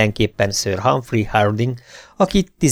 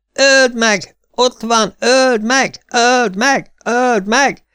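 much higher, louder frantic yell; boy shouting; 13 semitones higher, 4 dB louder, much slower than usual. A narrator's reading. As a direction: scream it at the knight from the crowd. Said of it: "kiáltotta hirtelen a fiú".

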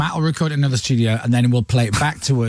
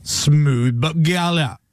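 backwards speech; slower than usual. Shown as a demonstration. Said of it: "we have to mimic the noise of it backwards".

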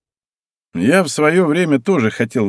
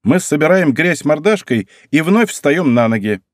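slow, lofty and a bit higher; grandiloquent; 5 semitones higher than usual. Acted. Girl boasting about the Koyama women, grandly. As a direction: declaim it like a proud family motto. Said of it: "произнесла она высокопарно".

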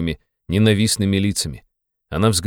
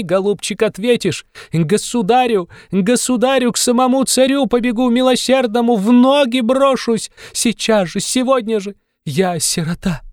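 hysterical tirade; 13 semitones higher, 3 dB louder than usual. A narrator's reading. Katerina's hysterical tirade at Luzhin.

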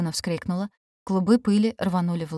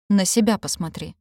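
snapping back; 4 dB louder than usual. Acted. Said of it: "огрызнулась Нати".

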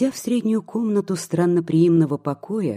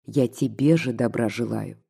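a touch softer and lower; 5 semitones lower than usual. Acted. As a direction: ease off into gentle persuasion. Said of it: "более мягко прибавила". (чуть мягче и ниже, уговаривая)

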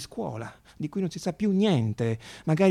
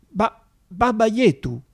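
solenne enfatico; 8 semitones higher, 8 dB louder, slower than usual. Acted. Padre Nostro in diverse lingue.

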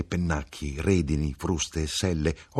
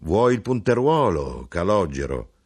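harmonious voice; 4 dB louder than usual. Acted. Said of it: "Con voce armoniosa".

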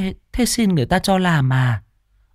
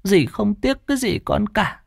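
tender aunt; 5 semitones higher than usual. Acted. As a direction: give him her savings lovingly. Aunt gives money tearfully. (giọng bà nghẹn ngào)

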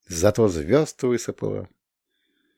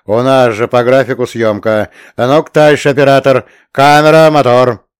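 loud; 3 semitones higher, 8 dB louder than usual. A narrator's reading. Postman directs film shoot.

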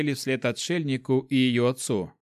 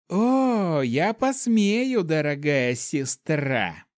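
slow furious hiss, high start; 3 semitones higher, much slower than usual. Acted. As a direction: drag out the threat with fury. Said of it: "прошипела Хао".

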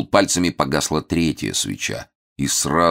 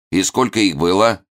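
mock evil villain; 6 semitones higher, 4 dB louder than usual. Hermit interrogates.

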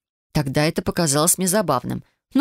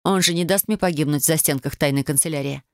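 plain reading voice

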